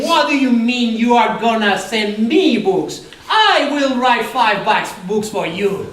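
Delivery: hammed-up offended ego; mock ego outburst. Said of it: "all my ego saying".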